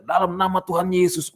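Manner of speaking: loud, high prayer declaration; forceful acted-out prayer command; re-enacted healing prayer. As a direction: blurt out the invocation at full force. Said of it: "Saya sambil berdoa".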